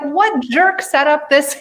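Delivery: slow, punched mock outrage; mock indignation. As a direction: complain in comic disbelief. Arriving in soul school, indignant.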